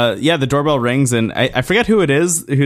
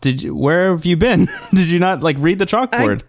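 higher-pitched imitated incredulous scolding; mock reproach; 5 semitones higher than usual. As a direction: lightly act out an exasperated housemate. Voices housemate scolding Pepe.

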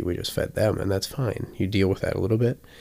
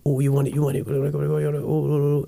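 high, loud teasing over the toy; teasing excitement; 8 semitones higher, 3 dB louder, faster than usual. Shown as a demonstration. Owner teasing the dog with a toy in a high voice. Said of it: "I'll go".

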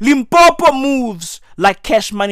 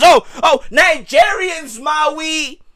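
mock xenophobe; 4 semitones higher, slower than usual. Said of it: "mocking xenophobes".

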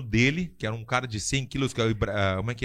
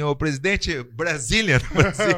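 mock yell; 2 semitones higher, 5 dB louder, slower than usual. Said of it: "E eu quase gritei assim".

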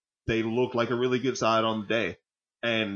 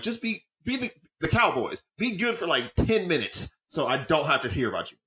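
mock pleading; 6 semitones higher than usual. Pleading with Arsenal, mock quote.

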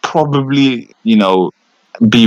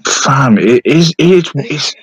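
worked up; 3 semitones higher, 5 dB louder, much slower than usual. Real, not acted. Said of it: "He's so angry at this one topic".

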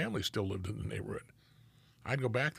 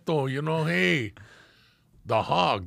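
louder, higher demand for respect; Ruben's retold scolding; 5 semitones higher, 7 dB louder than usual. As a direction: imitate an indignant buddy laying down the law.

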